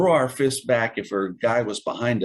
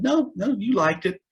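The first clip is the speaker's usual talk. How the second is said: mock drill sergeant; 12 semitones higher than usual. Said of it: "He said".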